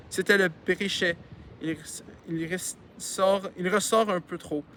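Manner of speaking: reading a novel aloud; story narration. A narrator's reading. Reader telling a childhood story to listeners, narrating. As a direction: narrate it clearly, with lively phrasing.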